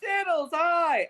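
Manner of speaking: high, loud, drawn-out greeting; high, drawn-out overjoyed hello; gushing hello. Acted. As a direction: throw your arms around an old friend. Greeting old friend warmly.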